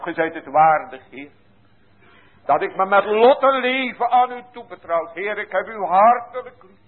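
impassioned prayer. Acted. Sinner begging the Lord to hold him, pleading. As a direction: cry out to God for help. Soul's cry to God.

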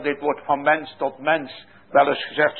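usual speaking voice

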